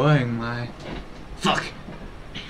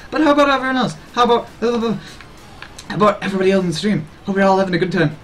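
higher, eager caffeinated chatter; hyped, quick talk; 4 semitones higher, faster than usual. Pretend. Streamer asking the chat how they are, hyped up. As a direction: stumble over yourself checking on everyone. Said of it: "talk really quickly".

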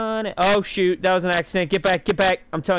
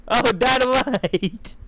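higher, drawn-out gleeful call; excited shout; 8 semitones higher, slower than usual. Real, not acted. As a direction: stretch it out with glee.

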